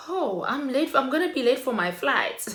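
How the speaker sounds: flustered protest. Retold or imitated. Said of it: "I'm like".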